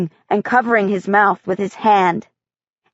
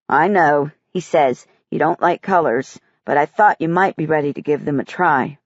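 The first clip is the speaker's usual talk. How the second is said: gentle teacher; 6 semitones lower than usual. Acted. Art teacher voiced lower.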